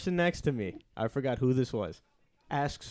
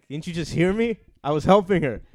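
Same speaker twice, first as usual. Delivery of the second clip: retold exasperated protest; 5 semitones higher, 7 dB louder than usual. Retold argument with the French teacher.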